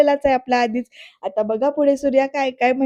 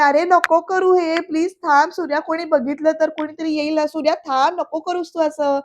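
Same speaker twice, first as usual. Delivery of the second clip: higher, anxious begging; pleading to stop; 4 semitones higher than usual. Retold or imitated. Vaidehi begging Surya to stop his sit-ups, higher and anxious. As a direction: beg him to stop before someone sees, voice up.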